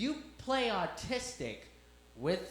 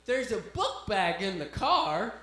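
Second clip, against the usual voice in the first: deflecting; 2 semitones higher, 6 dB louder, slower than usual. Retold or imitated. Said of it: "completely deflecting the question".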